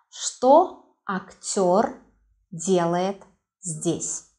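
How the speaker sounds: Что актёр делает здесь spoken slowly, Что stretched; slow model question. Shown as a demonstration. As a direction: spell it out slowly for the class. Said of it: "That is why the question is".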